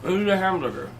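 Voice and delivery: talking with a mouthful; words around a bite of food; chewing while talking. Real, not acted. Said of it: "sorry I'm munching on this stuff here".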